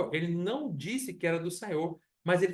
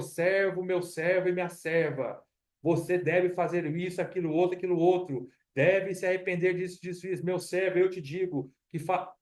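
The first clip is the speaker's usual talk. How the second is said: a touch of a prophetic pentecostal preacher, slightly raised; lightly mock the old-style "thus says the Lord" preacher; pentecostal preacher imitation. Pastor mocks pentecostal preachers prophesying to the church, mildly imitating. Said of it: "muito meio pentecostal".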